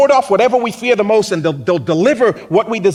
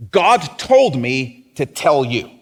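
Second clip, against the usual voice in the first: lightly voiced preacher; 6 semitones lower, slower than usual. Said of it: "they will say things like".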